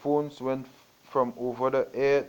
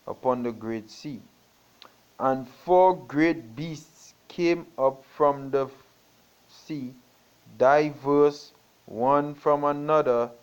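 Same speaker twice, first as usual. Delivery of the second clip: solemn King James reading; scripture reading. Acted. Preacher reading Daniel to the congregation, solemnly. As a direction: read the prophecy with weight. Reads Daniel chapter seven aloud.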